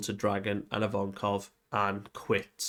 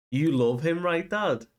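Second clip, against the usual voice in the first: put-on higher, louder eager kid voice; excited child; 6 semitones higher, 3 dB louder than usual. Young Bonnie asking her dad about Nika, eager higher voice. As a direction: bubble over like a kid.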